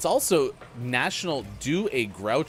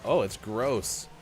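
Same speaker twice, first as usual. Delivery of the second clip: disgusted; 2 semitones higher, much slower than usual. Pretend. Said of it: "the reaction that they're anticipating".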